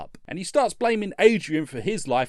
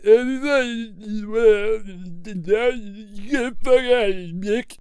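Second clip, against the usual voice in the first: slow stretched-out mock shout; Rocky dragging out his angry send-off; drawn-out angry yell; 4 semitones higher, 5 dB louder, much slower than usual. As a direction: drag out the words, louder, like telling him off. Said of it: "He's all like".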